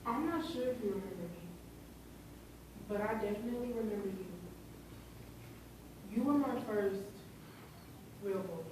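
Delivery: soft, measured reading of a painful letter; dramatic monologue. Acted. A victim addresses their old bully in a letter, hushed dramatic monologue. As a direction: address the bully quietly, with long pauses.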